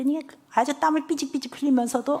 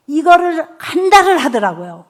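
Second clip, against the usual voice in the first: laughing; 4 semitones higher, 8 dB louder than usual. Real, not acted. Laughs recalling the month.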